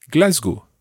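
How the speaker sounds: Glasgow said the French way; French accent. Shown as a demonstration. Teacher giving a model answer on hometown, French accent. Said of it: "said it in a French accent".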